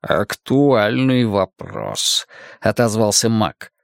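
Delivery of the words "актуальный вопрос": sinister magician. Acted. Villain Cain speaks slowly.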